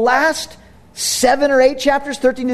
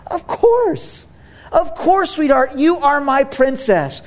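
tender dad; 4 semitones higher than usual. Retold or imitated. Dad answering daughter tenderly.

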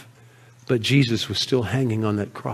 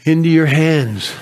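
a mildly raised cry to the Father; retold loud cry; 2 semitones higher, 3 dB louder than usual. Jesus calling to his Father, mild retold cry. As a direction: lift "Father" out a little louder. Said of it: "He cried out with a loud voice".

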